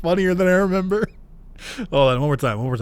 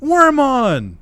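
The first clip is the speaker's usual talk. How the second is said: Erica scolding; 3 semitones higher, slower than usual. Retold or imitated. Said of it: "Erica's gonna be like".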